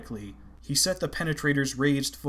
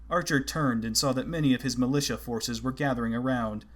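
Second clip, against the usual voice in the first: plain reading voice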